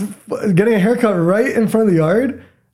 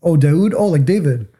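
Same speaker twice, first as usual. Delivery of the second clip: mimicking confused asker. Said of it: "I get the random".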